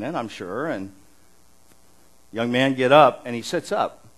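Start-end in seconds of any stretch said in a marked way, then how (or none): 2.3-3.2 called out loud to the corpse; loud command. Acted. Preacher acting Jesus at the funeral, loud command. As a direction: call him up with authority.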